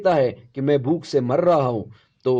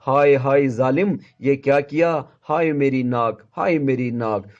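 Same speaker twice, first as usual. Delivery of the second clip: louder wailing over her nose; whimpering complaint; 3 dB louder than usual. Acted. Wife wailing to her husband about her nose, louder. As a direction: wail it like a hurt wife. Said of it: "بسورتی ہوئی".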